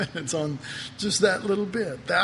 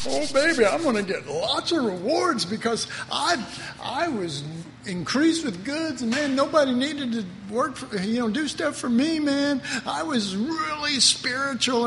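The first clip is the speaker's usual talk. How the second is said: smug believer; 5 semitones higher than usual. Retold or imitated. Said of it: "stand before the Lord and go".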